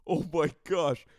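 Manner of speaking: high, loud mock gasp of joy; hammed-up overjoyed reaction; thrilled girlfriend. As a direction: gush like she expects a proposal. Girlfriend hears about the ring.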